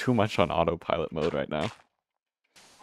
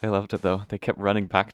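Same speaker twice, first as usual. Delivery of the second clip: breathless after chasing cats; panting, out of breath; 3 semitones higher than usual. Real, not acted. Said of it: "I'm so out of breath".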